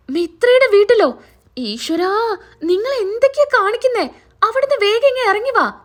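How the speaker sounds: alarmed wife. Acted. Wife on the phone begging her hiding husband, alarmed and high. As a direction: pull him out of danger, fast and frightened.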